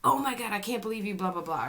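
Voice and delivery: high, loud, fast exasperated snap; exasperated outburst. Retold or imitated. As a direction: blurt it out in disbelief. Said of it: "they go into the conversation like".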